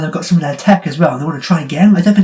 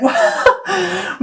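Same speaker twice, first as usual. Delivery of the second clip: laughing; 14 semitones higher, 3 dB quieter than usual. Real, not acted. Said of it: "laughing disbelief".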